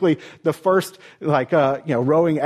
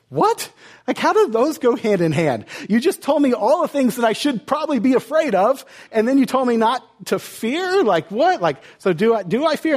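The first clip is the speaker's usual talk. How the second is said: high, incredulous voicing of a confused disciple; baffled disciple; 6 semitones higher than usual. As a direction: play a disciple who can't believe what he just heard. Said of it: "I'm sure his disciples would think".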